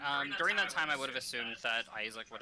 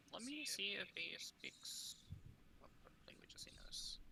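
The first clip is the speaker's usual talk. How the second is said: whispering; 8 semitones higher, 14 dB quieter than usual. Real, not acted. GM checking notes aside.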